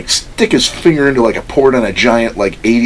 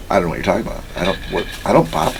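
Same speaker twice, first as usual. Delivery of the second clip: soft, low baffled mumble; retold bewilderment; 4 semitones lower, 5 dB quieter, faster than usual. Imitating the runner's denial, subdued bafflement. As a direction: deny it lamely, a bit under your voice. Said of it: "He's like".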